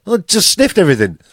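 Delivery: high, keen dog answering; eager pup reporting its day; excited dog. Acted. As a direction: chirp it like a happy dog. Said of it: "a dog would be like".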